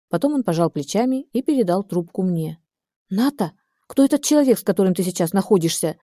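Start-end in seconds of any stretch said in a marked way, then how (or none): 3.1-6.0 alarmed shout down the phone. Acted. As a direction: yell it right into her ear. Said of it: "закричала она мне в самое ухо".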